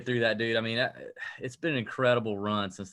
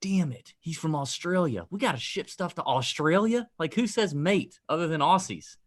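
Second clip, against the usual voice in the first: higher, exasperated groan at shipping; a dismayed host grumbling, pitched higher; mock dismay; 6 semitones higher than usual. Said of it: "And I was like".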